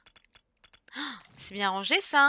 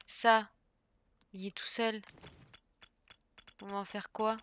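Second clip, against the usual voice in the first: usual speaking voice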